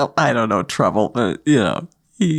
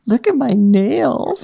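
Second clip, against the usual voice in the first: Adam; 4 semitones higher, much slower than usual. Retold or imitated. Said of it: "Adam said".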